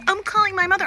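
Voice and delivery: high-pitched mock child's threat; mimicked defiant kid. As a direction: imitate a kid threatening to tell.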